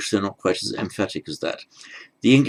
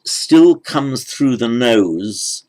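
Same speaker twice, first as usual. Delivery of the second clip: slow emphasis; 3 semitones higher, 6 dB louder, much slower than usual. Shown as a demonstration. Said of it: "the air".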